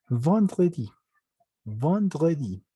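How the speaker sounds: "vendredi" with EN as a nasal AN. Shown as a demonstration. Teacher showing the EN rule, AN sound. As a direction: say "vendredi" as von-dre-di. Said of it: "La E N se vuelve A N".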